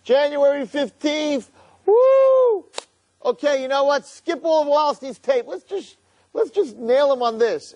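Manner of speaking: high, slow, sneering villain savoring revenge; gloating evil inclination. Acted. Yetzer Hara plotting against Wallerstein, gleeful high sneer. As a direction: crow like a schemer sure of his catch. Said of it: "and he's like".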